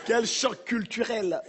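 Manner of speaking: put-on slow, careful standard French accent; accent africain perdu. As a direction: lose the accent, draw it out slowly. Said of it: "j'ai perdu mon accent". (accent français soigné, très lent)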